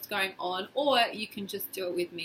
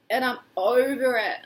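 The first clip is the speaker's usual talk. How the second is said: fed up; 5 dB louder than usual. Shown as a demonstration. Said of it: "say it like that".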